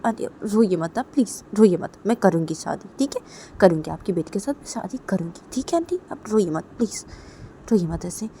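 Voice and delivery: gently promising, asking her to stop crying; reassuring consoler. Acted. Voices consoler, softer reassurance. (प्यार से दिलासा देना)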